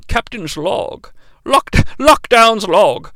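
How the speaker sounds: lightly voiced starship captain; Captain Jean-Luc Picard. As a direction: dictate a captain's log, measured and formal. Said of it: "Lockdown sounds like Captain Jean-Luc Picard".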